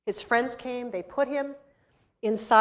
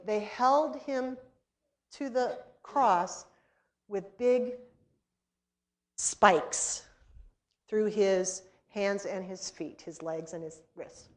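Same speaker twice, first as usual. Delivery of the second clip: slow, softer grave voice; hushed solemn telling; 2 semitones lower, 5 dB quieter, slower than usual. Retold or imitated.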